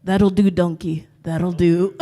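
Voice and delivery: low Scottish ogre voice; Shrek. Acted. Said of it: "as Shrek from Shrek".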